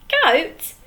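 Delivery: indignant. Acted. Handkerchief echoing the troll, outraged disbelief. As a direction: throw "Goat?" back in disbelief. Pirate puzzled, then outraged.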